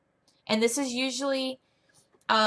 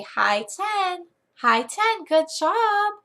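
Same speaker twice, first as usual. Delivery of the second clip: put-on high-pitched cheering for a young pupil; upbeat sing-song teacher encouragement; happy, smiley praise; 9 semitones higher, 3 dB louder, much slower than usual. Shown as a demonstration. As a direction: celebrate with the kid, voice lifted. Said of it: "just be very happy, smiley".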